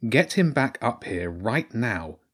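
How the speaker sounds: slow, deliberate command; stern order. Acted. Girl orders rats to return her dog, slow firm command. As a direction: order it firmly, word by word. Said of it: "Jenny ordered".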